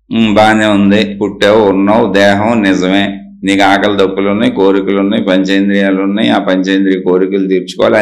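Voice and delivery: low-pitched, matter-of-fact concession; conceding. Real, not acted. Conceding the listener's view point by point.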